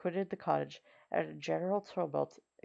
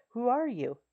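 startled exclamation; 7 semitones higher, 4 dB louder than usual. A narrator's reading. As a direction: gasp it out, stunned by the sight. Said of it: "exclaimed the old man".

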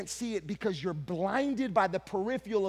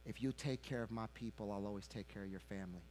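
voice of the Lord; 8 semitones lower, 11 dB quieter, faster than usual. Retold or imitated. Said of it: "I heard the Lord's voice say to me".

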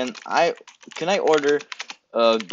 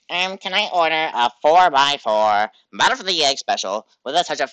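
lightly put-on prank caller; a demo of the first caller's voice; 2 semitones higher than usual. Shown as a demonstration. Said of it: "the first time, like".

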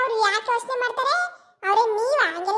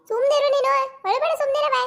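firm hush; 4 semitones higher than usual. Acted. Father telling his sulking daughter to hush, stern and raised. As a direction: cut her off sharply.

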